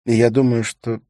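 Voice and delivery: high, loud woman's voice; high-voiced acted yearning; desperate widow. Widow confesses need for love.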